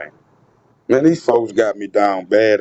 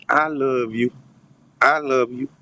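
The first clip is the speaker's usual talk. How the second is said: imitated tender tone; 3 dB quieter than usual. Retelling what the woman said, in a soft imitation. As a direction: mimic her tone. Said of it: "the cadence and the tone in which she said this".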